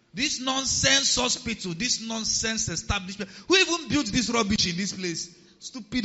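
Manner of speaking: loud, high mock tirade; angry rant. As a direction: rage indignantly, hammering out each insult. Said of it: "when I was angry, I was saying".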